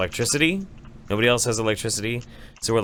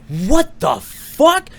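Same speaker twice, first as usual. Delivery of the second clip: high, loud, drawn-out mock disbelief; imitated shocked girlfriend; 8 dB louder, much slower than usual. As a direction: mimic her stunned outburst, stretching every word high. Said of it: "So she's like".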